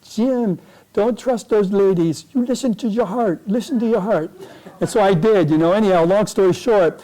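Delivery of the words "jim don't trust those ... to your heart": lightly voiced player, higher-pitched mock yell; imitating Pierre Bouchard. French-Canadian player advises Jim over the women, mock yell. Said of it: "Pierre is yelling at the women".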